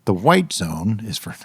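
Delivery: slow, measured terminal PA voice; airport announcer voice. Acted. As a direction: announce it over airport speakers. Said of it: "This is my airport announcer voice".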